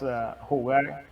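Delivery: ordinary talk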